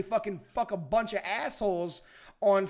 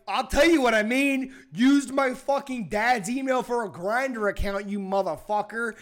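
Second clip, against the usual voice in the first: mock angry rant; 3 semitones higher, 5 dB louder than usual. Friend retells scolding Kevin over the Grindr prank, mock angry. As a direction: let him have it in half-joking fury. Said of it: "And I'm like".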